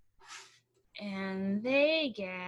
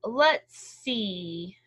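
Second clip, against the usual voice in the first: sleepy yawn through words; 6 dB louder, much slower than usual. Acted. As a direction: speak mid-yawn. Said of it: "Bear said with a yawn".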